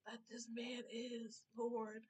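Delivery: hushed, breathy admiring whisper; whispered aside. Real, not acted. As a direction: breathe it out like a secret. Gushing aside about the artist.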